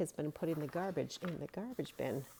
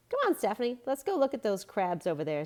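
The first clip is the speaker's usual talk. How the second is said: higher, brighter invitation; eager call; 5 semitones higher, 4 dB louder, faster than usual. A narrator's reading. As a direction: call her over eagerly. Girl calls her friend.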